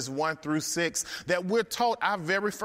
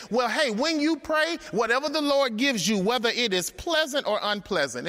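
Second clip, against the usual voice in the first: eager plea; 6 semitones higher than usual. Acted. People eagerly asking prophet.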